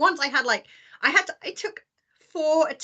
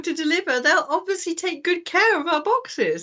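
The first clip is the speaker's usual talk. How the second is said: higher, earnest mock innocence; mock naive trust; 4 semitones higher than usual. Imagined shippers trusting the delivery people, sweetly naive.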